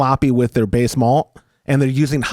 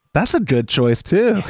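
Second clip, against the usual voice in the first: dry, sarcastic mock approval; 2 semitones higher than usual. Responding to another person's beer pick, sarcastic. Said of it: "that's why I said it like that. Was that not my sarcasm didn't come through?".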